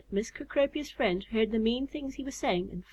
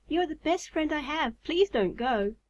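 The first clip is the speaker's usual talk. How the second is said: higher-pitched, earnest plea; crying out; 6 semitones higher than usual. A narrator's reading. Moth begging her best friend to stay, pleading. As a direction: plead with a touch of urgency. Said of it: "she cried".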